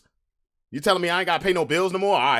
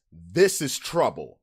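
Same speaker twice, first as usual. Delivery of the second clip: inner warning; 8 semitones lower, slower than usual. Retold or imitated. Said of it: "the initial vibe even surrounding that says".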